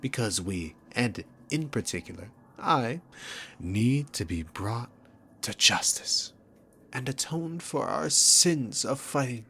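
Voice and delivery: hammed-up self-righteous recital; sarcastic mockery. Mocks the hero's accusations.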